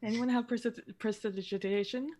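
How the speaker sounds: talking around a wad of gum; chewing gum. Real, not acted. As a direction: say it with gum in your mouth. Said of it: "I can't say that with gum in my mouth".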